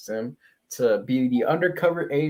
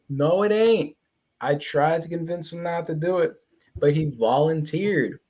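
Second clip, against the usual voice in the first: acted protest; 5 semitones higher than usual. Voices Alan defending himself to Mark.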